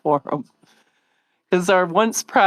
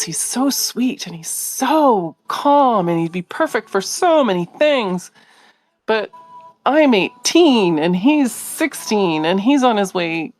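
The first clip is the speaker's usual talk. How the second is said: daughter's voice; 4 semitones higher than usual. Retold or imitated. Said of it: "And she was like".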